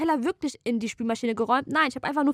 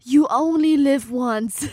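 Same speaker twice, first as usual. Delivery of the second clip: mock tearful; 3 semitones higher, 6 dB louder, slower than usual. Mock pathos closing phrase.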